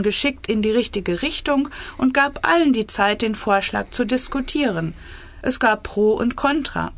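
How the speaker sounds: measured, clearly articulated story reading; story narration. A narrator's reading. Author reading her cabinet satire, measured story narration. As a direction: read the tale aloud with composure.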